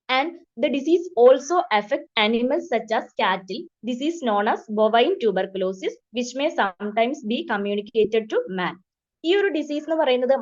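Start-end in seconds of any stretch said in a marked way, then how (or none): 0.1-8.8 very slow, word-by-word dictation of a definition. Shown as a demonstration. Teacher dictating a definition to nursing students, slow and even. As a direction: read it out slowly so students can write. Reads textbook definition for notes.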